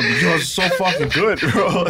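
teary from burnt mouth. Real, not acted. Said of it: "Eyes are watering".

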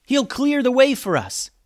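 very high, loud call; yelling. A narrator's reading. Alex urges friends down the stairs, yelling. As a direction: yell it out to rally your friends. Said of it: "yelled Alex".

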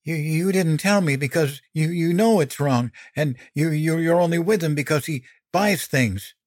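put-on high, stammering teenage protest; upset accusation. A narrator's reading. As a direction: stumble over the words while accusing. Upset son accuses his mother, stammering.

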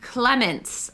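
Clements said carefully with a guessed French accent; careful attempt at saying Clements; tentative French pronunciation. Real, not acted. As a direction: try Clements as a French name, unsure. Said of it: "probably am pronouncing that wrong".

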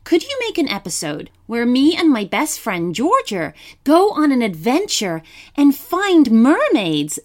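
put-on bright, high young girl reading; child's letter voice. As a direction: read it like an eager little girl.

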